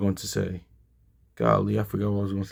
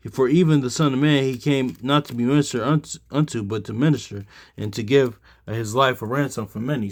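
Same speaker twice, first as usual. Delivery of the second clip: emphatic Bible verse reading, pitched up at the start; scripture reading; 3 semitones higher than usual. Acted. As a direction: read the verse out to teach. Reads scripture aloud to teach.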